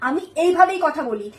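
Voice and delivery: slow, deliberately measured defiance; pointed denial. Acted. Wife denying she is shouting, slow defiant insistence. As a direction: spell it out slowly, stubbornly controlled.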